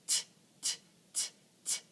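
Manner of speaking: whispered crisp t taps; T sound. Shown as a demonstration. Teacher showing the T sound as metal bars. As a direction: tap out t like bars rattling. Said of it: "it goes t".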